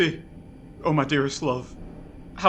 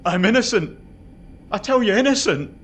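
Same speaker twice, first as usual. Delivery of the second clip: louder, insistent plea of innocence; pleading protest; 2 semitones higher, 4 dB louder than usual. Acted. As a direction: hammer the word home, desperate. Prisoner protests his innocence.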